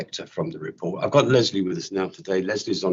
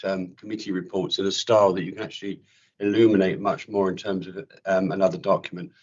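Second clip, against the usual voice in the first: slightly croaky from a chest infection. Real, not acted. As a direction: speak with a croaky, sore-chested voice. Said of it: "If I sound a bit croaky".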